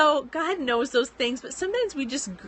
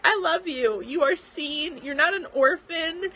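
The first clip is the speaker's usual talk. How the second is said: quoting God through tears, pitched higher; tearful; 5 semitones higher than usual. Real, not acted. Vlogger retelling God's reassurance to her, tearful and higher. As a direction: hold back the tears while giving God's words.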